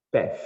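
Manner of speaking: "Path" ending almost in an F sound. Shown as a demonstration. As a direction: say "Path" with an F-like final TH. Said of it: "quase com F no final". ("Path" com som de F no final)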